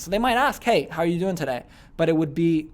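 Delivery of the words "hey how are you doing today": "how are you doing today" falling at the end; no uptone. Retold or imitated. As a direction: ask it without lifting "today". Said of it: "they wouldn't do the uptones in their questions".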